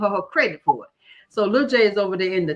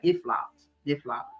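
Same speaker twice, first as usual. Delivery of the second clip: deflated mock admission; 4 semitones lower, 5 dB quieter, slower than usual. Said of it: "So we like".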